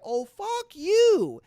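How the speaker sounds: high, loud, drawn-out curse; mock yell. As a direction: yell it at the trucker, stretched out slow. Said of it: "So the S U V is like".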